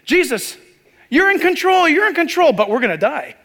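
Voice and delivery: mock disciples. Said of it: "Basically, they're saying".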